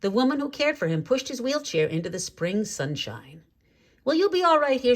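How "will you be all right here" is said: much higher, gently caring question; a nurse asking the old man if he is comfortable. A narrator's reading. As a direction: check on him kindly. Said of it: "she asked".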